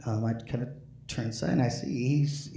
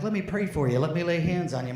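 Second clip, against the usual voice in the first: preacher offering prayer; 6 semitones higher than usual. Retold or imitated. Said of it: "they're like".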